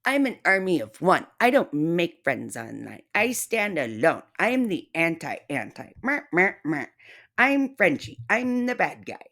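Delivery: lightly voiced mock of the target; mock quote. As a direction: parody her boast.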